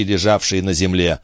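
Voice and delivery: ordinary delivery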